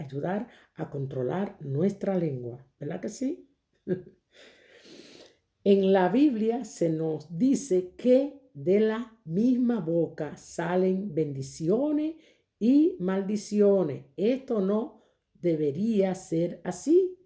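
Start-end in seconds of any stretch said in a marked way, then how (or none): 5.7-17.2 very slow, measured read-aloud; deliberate lesson reading. Real, not acted. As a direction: read it out phrase by phrase, slowly. Reads the lesson text aloud. (lectura pausada y solemne de la lección)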